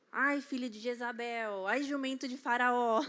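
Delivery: a playful blessed insult, building to a shout; mock Christian cursing. Mom cursing a driver who cut her off, mock shout. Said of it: "aí eu falava".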